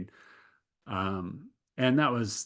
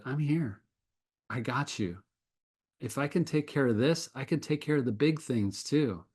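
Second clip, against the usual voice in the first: reassuring God. Retold or imitated. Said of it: "He showed up in that low moment and said".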